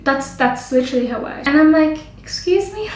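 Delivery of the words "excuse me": high, incredulous rising question; offended excuse me. Retold or imitated. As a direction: ask it in offended disbelief. Offended reaction.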